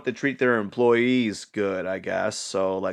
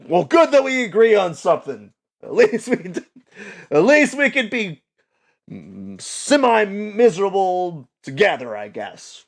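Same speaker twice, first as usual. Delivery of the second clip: high mock voice; 9 semitones higher, 4 dB louder than usual. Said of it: "And I'm like".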